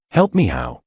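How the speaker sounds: mocking high jump on how; scornful rising sneer. A narrator's reading. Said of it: "George sneered".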